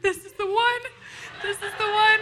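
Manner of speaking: high, loud, laughing delight; giddy girl finding her dream; excited. Retold or imitated. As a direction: squeal it with thrilled laughter. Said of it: "I'm like".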